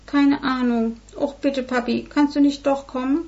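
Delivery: höher, bettelnd und quengelnd; flehende Tochter. Acted. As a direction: bettle den Vater weich. (Tochter fleht Vater an zu kommen, höher)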